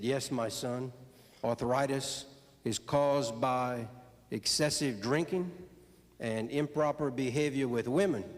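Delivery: low, measured priestly answer; deliberate, pause-laden pastoral pronouncement; solemn priest. Acted. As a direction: slowly deliver a grave verdict as a priest. Priest lectures Boudreaux in the joke.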